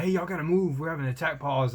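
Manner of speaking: imitating a captain barking orders; mild mock yell from the captain; retold yelling. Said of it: "some O C captain yelling at me".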